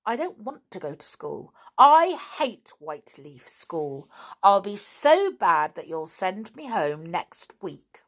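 put-on girl defying her two mistresses; defiant outburst. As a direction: hurl it at them, daring them to get cross. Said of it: "The little girl glared".

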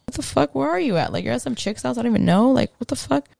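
mock-confronting someone who isn't there; retold indignation. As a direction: act out an exasperated "where were you". Retelling her indignation at him.

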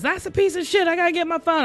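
lightly voiced attendant, taken aback; flight attendant.

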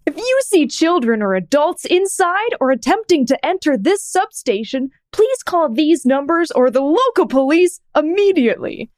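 clownish warning with swooping pitch; goofy Comic Sans voice. Shown as a demonstration. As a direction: read a serious warning sign like a goofing clown. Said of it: "sounds like when I try to do".

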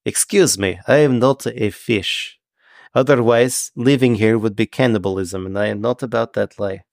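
prim, stilted fish-man correcting someone; a hint of a formal, careful sea creature; measured, mildly indignant Triton; lightly voiced Triton. Game master plays the Triton.

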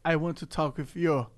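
put-on halting English in thick Brazilian accent; Portuguese accent English. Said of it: "o sotaque é uma merda mesmo".

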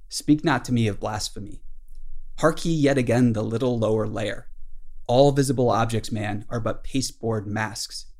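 measured, lightly declaimed captain's tirade; dramatic literary reading. Acted. Ahab answers Starbuck on deck, lightly declaimed tirade. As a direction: read it out with mild theatrical weight. Reads Ahab's tirade aloud.

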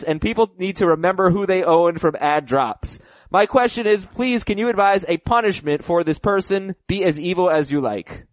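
lively email read with dramatic pushes. Acted. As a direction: read the listener's letter aloud, playing up the drama. Reads a listener email aloud.

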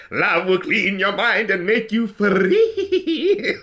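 villain voice. Retold or imitated. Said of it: "with the voice where he goes like".

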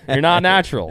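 emphatic. Real, not acted. Emphatic repeated claim.

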